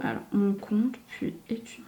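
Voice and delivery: anxious whisper; words breathed out with no voice. Real, not acted. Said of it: "je suis stressée".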